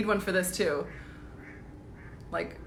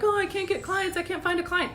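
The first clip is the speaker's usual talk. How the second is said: high mock whine of a struggling coach; whiny complaining coach; 9 semitones higher than usual. Mocking coaches who say they can't get clients, high mock whine. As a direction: whine it like someone feeling sorry for themselves.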